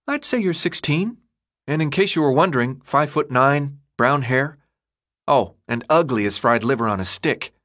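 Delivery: put-on a boy's high voice, cheeky and quick; teasing kid Chuck. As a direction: poke fun at the new guy, pitched high. Chuck sizes Thomas up.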